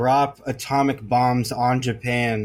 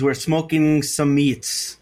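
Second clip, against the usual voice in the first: put-on Midwestern accent; slower than usual. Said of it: "I made him like Midwestern".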